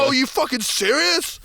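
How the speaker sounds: high, slow, rising question; mock disbelief. Group questions his confession, mock disbelief. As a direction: imitate an incredulous challenge, stretching it out.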